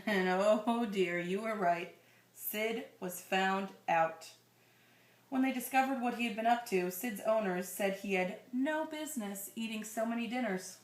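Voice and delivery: storybook reading voice; story narration. Acted. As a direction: read it like a bedtime picture book. Reading picture book to child.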